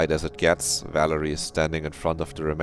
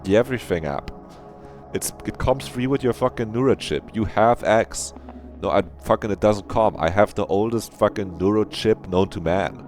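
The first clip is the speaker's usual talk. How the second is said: raised, higher-pitched argumentative rant; mock exasperated bickering; 5 semitones higher than usual. Streamer mimicking people arguing over X, mock exasperated. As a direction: act out a heated petty squabble.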